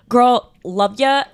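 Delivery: slow, sing-song playful dismissal; breezy brush-off. Retold or imitated. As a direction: drawl it out like waving off a pushy mom. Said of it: "I'm like".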